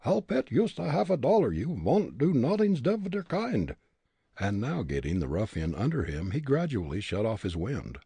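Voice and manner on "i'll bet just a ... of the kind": put-on higher, firm Dutch-accented voice; Dutch accent retort. Fritz refusing the bully, defiant Dutch accent.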